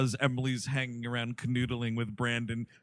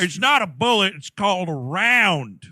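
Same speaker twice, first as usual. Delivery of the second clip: indignant correction; 3 semitones higher, 9 dB louder than usual. Pretend. Acting gun-nut dad correcting.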